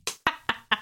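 laughing at own joke. Real, not acted. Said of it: "Sorry, I was laughing at my own joke".

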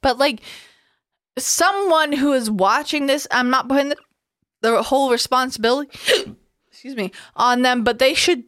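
talking through hiccups; hiccupping mid-sentence. Real, not acted. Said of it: "Oh, I got the hiccups".

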